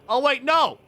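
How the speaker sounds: high, loud burst of realizing; sudden realization. Real, not acted. Sudden realization mid-story.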